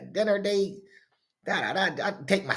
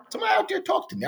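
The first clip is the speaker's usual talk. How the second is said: high shout to the audience; calling out; 14 semitones higher, much faster than usual. Real, not acted. Host calling out to his viewers, high shout. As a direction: holler it out to anyone listening.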